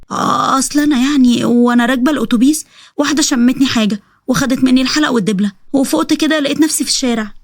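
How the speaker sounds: mildly faltering, making up an excuse; hesitant lying. Acted. Wife inventing a bus robbery for her husband, hesitant excuse.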